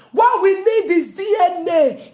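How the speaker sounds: loud, slow demand; slow shout. Real, not acted. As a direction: shout it slowly and firmly. Rant climax.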